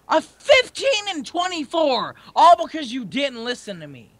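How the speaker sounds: raging gamer. Real, not acted. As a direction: vent at the teammate. Blames teammate after losing.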